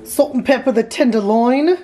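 put-on botched British accent, no clear origin; strange accent. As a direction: attempt a British accent and miss. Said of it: "That was a strange accent".

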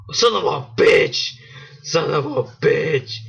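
drawn-out angry swearing at the game; slow frustrated curse. Real, not acted. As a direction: drag it out, fed up. Losing the level again.

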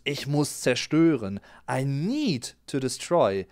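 ordinary delivery

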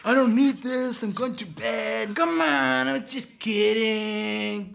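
high-pitched couple's squabble; acted bickering. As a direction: imitate a fed-up refusal and wheedling reply. Acted quarrel of Rosie and Bob.

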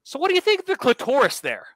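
high, sweet mock presenter voice; mock TV host. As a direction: play a prim host asking cheeky questions. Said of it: "she's so".

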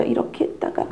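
breathy aside, unvoiced; whispered first take. Shown as a demonstration. Teacher whispers the first position switch. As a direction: whisper this way then. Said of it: "엄마들이 자꾸 자세를 바꾸세요".

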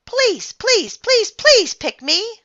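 put-on high, loud pleading girl voice, slow; begging girl. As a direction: beg like a little girl, high pitched.

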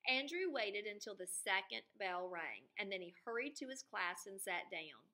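lively storybook reading; reading to children. A narrator's reading. Teacher reading the book aloud to her students, expressive. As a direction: read it to the class with expression. Narration resumes.

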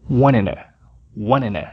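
wanted dito "wanena", T como R; wanted unido ao to. Shown as a demonstration. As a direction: junte wanted e to num só som. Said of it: "esse som se une ao som final de wanted". (wanted colado ao to)

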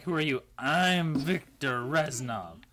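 slow, put-on Russian accent as a drunk Reznov; mock Russian accent. Friend imitating a drunk Halloween Reznov, hammed-up Russian accent. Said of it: "Can you not hear my Russian accent?".

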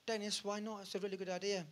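high, pleading whine; high sulky pleading voice; whining plea. Retold or imitated. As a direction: beg your friend sulkily. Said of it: "I'm like".

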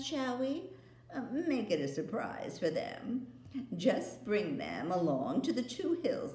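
flattering, secretive witch; the queen. Acted. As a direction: witch coaxing boy to keep a secret. Queen voiced.

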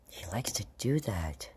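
soft voiceless whisper; whispered aside. Real, not acted. Vlogger tells viewers about her pet, whispering. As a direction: confide it under your breath.

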